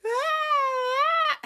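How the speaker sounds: high loud mocking scream then breathy laugh; hammed-up terrified scream; mock shriek. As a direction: shriek like a frightened soap heroine. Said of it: "No, you're like".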